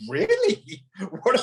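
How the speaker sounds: very high mock-surprised sarcasm; sarcastic high exclamation. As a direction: fake astonishment, dripping sarcasm. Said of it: "I'm like".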